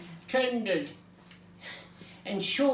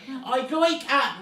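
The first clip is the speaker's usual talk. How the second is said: slow, raised, louder start cut off; booming start; 4 semitones higher, 5 dB louder, slower than usual. A narrator's reading. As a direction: begin booming slowly, then break off. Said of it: "then he stopped".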